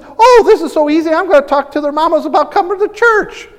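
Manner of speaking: excited. Retold or imitated. Retelling a shy woman's eager plan to the congregation, excited. Retold excited church member.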